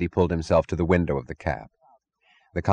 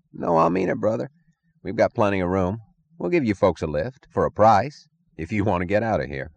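insolent; 2 semitones higher than usual. Acted. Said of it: "an insolent voice".

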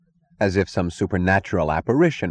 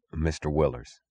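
quiet, lower gentle address; soft; 3 semitones lower, 6 dB quieter than usual. Acted. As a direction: say it softly. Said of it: "said the conductor softly".

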